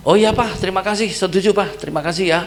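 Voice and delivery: relieved eager thanks. Retold or imitated. Son relieved, thanks his father.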